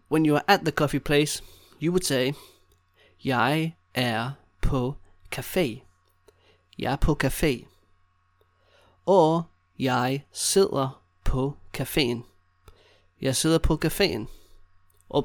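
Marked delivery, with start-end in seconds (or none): 3.2-5.8 slow, each word set apart. Shown as a demonstration. Teacher giving learners a coffee place phrase, word by word. 9.8-12.2 slow, with gaps between words. Shown as a demonstration. Teacher showing learners how to say sitting at the café, slowly.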